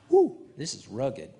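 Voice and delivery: breathy whispered aside. Real, not acted. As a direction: whisper it as if to yourself.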